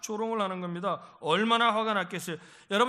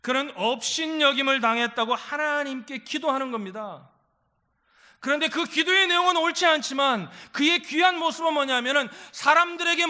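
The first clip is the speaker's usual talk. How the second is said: loud, raised preacher's voice; forceful sermon delivery, pitched up; impassioned preaching; 5 semitones higher, 6 dB louder than usual. Real, not acted. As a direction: drive the point home to the congregation.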